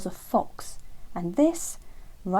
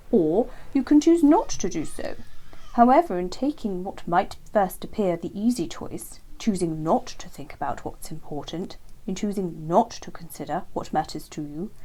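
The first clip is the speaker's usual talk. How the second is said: lightly raised earnest hare; a hint of a patient old hare; Hare's voice.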